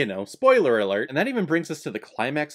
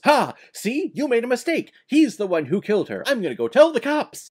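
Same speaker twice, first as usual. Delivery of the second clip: imitating Ida; 9 semitones higher, 4 dB louder than usual. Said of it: "she goes".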